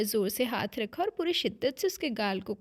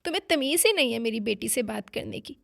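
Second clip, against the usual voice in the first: a louder, glaring father's reproach; stern rebuke; 5 dB louder than usual. Acted. Father defending his daughter, sternly reproaching. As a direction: scold her with a hard stare in the voice. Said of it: "वो घूर कर बोला".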